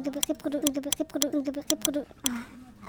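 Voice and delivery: stumbling over the word Reprodu-, breaking off; tripping on "Reprodu-", restarting; stuttering. Real, not acted. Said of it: "am besten ganz langsam sprechen". (stotternd an "Reprodu-" hängen bleiben)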